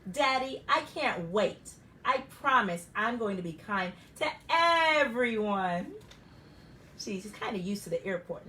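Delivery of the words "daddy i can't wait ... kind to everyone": a lightly voiced eager child; eager little girl. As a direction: promise it like an excited kid. Child Primrose promising.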